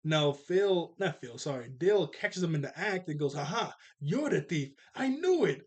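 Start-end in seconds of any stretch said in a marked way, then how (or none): 3.3-5.6 triumphant retold accusation, jumping higher at the end; acted gotcha. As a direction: playfully catch the culprit red-handed. Character catches thief in the act.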